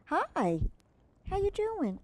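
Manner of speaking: high sing-song greeting to the puppy; high puppy talk. Real, not acted. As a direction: coo hello up high at the dog.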